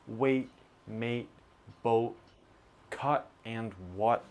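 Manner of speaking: wait, mate, boat, cut, what ending in a throat stop; glottal T words. Shown as a demonstration. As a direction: stop each final T in the throat. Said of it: "vowel T words".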